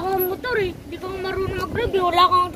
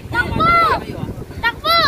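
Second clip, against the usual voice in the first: while running; 9 semitones higher, 4 dB louder than usual. Real, not acted. Child still running, shouting.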